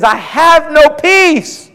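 slow, lightly anguished lament; despairing Job. Retold or imitated. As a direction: plead it slowly, worn down. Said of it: "Look what he says".

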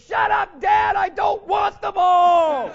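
loud, high yell at his dad, half laughing; annoyed kid shouting. Retold or imitated. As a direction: shout back in protest. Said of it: "Calhoun turns around and goes".

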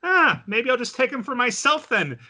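high-pitched playful taunt; teasing. Retold or imitated. Maria poking fun at her friend, teasingly. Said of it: "just poking fun at her friend".

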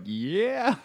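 high, stretched-out "yeah"; retold whoop of approval, way up high; gleeful cheer. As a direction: cheer on the hero's move. Retells own cheer at headbutt.

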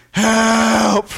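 high, loud little plea; a toddler begging for help; pleading child. Retold or imitated. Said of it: "looks at me like".

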